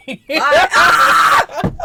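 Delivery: high, loud laughing shriek. Real, not acted. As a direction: scream through the laughter. Shrieks at steak animation.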